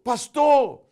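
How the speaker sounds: put-on high, loud cry of a boy; boy shouting pastor; child's shout. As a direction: call out to the pastor.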